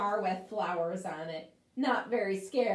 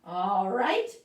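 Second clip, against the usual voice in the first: short, louder snap from the witch; snapped; 7 dB louder than usual. Acted. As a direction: bite it off impatiently. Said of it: "snapped the witch".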